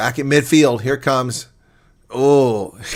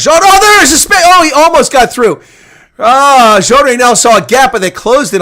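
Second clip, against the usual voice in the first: much higher, louder burst; excited shout; 10 semitones higher, 9 dB louder than usual. Real, not acted. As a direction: gasp at the gap opening. Player spots a gap.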